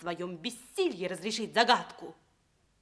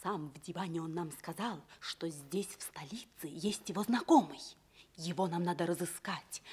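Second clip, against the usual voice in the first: conspiratorial whisper; 4 semitones lower, 5 dB quieter than usual. Acted. Conspiring about finding the prince.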